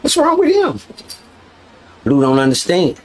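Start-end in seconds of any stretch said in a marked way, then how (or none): 0.0-0.8 very high mock white accent; high, put-on white-boy accent; Blue's white accent. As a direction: imitate white talk way up high. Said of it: "Blue had the accent".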